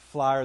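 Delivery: "Flyer" for fire, drawled as one Texan "flah-yer"; Texas-accented fire. Shown as a demonstration. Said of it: "It's all the same word".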